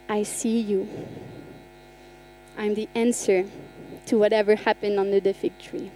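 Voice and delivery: soft, low voice of Jesus; hushed, tender assurance; gentle reassurance. Retold or imitated. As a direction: speak quietly to someone who feels alone. Voicing Jesus to the lonely.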